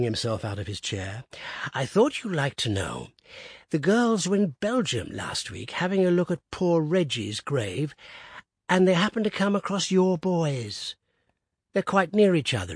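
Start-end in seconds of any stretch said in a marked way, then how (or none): 1.7-12.8 put-on old man's voice. A narrator's reading. Old Woodifield's piping voice.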